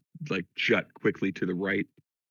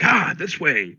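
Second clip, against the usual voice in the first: higher-pitched mock call-out; re-enacted call; 7 semitones higher, 4 dB louder, slower than usual. Player repeats how he called for her first, mock call. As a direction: replay the urgent call, a little toned down. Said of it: "I called for her first, like".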